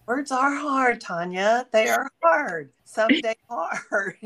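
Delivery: high, drawn-out mock struggle; little whiny voice. Co-host joking to Tanya about tripping over words, little whiny voice. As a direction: stretch out "hard" in a little high voice. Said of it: "that little voice that you just did".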